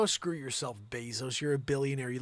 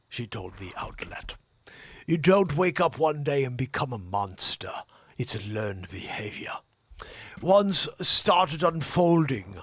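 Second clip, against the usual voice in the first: put-on English accent; 4 dB louder than usual. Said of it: "My English accent is essentially Jeremy Irons".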